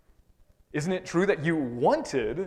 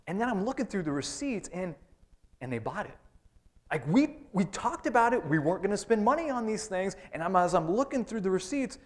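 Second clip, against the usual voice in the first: indignant spouse; 4 semitones higher than usual. Acted. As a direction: vent in outrage at what they bought. Voicing a congregant's money grievance.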